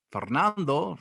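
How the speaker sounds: "Fernando" said the Spanish way with a trilled R; "Fernando" in Spanish, R rolled; Spanish pronunciation. Shown as a demonstration. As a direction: give "Fernando" its Spanish sound. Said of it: "say it in Spanish".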